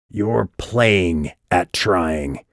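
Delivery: slow, snarling near-shout; nearly shouting. Acted. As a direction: snarl it out slowly. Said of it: "he was nearly shouting".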